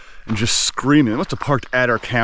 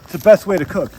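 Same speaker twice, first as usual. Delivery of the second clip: high, loud cooking-show host; TV chef voice; 11 semitones higher, 6 dB louder than usual. Pretend. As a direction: play the over-the-top chef.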